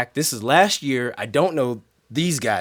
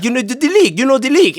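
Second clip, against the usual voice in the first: put-on high, louder, insistent French accent; mock French accent; 10 semitones higher, 5 dB louder, faster than usual. Bandleader imitating the woman repeating herself, insistent mock French accent.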